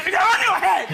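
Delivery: exasperated snap. Retold or imitated. Daughter snapping at mum about her glasses, exasperated. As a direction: snap it back at mum, fed up. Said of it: "I just go".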